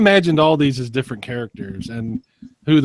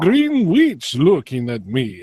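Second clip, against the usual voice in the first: Dracula voice; 3 semitones higher, slower than usual. Pretend. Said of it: "you know, Dracula".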